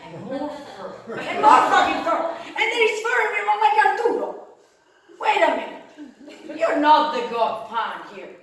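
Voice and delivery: high, loud incredulous yelling; loud shocked laughing rant; mounting disbelief. Retold or imitated. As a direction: rise into outraged disbelief. Shocked at more fur.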